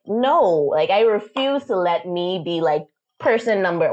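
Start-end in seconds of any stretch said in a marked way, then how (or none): 0.1-0.4 higher-pitched, emphatic refusal; defiant refusal. Retold or imitated. Daughter refusing to be a victim, defiant. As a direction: refuse to be pushed around. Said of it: "I'm more like".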